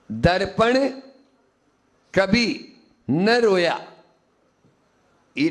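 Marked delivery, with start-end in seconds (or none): 0.1-3.9 slow phrasing. Shown as a demonstration. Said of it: "खड़ी लाइनें लगी है ना".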